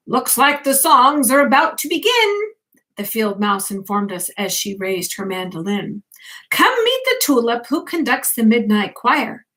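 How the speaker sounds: put-on bedtime story read to a child; reading aloud. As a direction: gently read the picture book to the grandchild. Reads picture book aloud.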